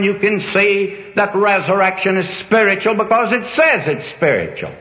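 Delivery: "spiritual" given the weight both times; stress on spiritual. Retold or imitated. Scholar concluding his paper to the brethren, stress on "spiritual". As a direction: argue it, leaning on "spiritual". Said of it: "he put the emphasis on spiritual".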